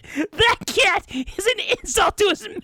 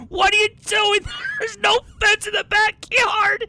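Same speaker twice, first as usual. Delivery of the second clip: mock angry yell; 4 semitones higher, 3 dB louder than usual. Mom yelling at careless son.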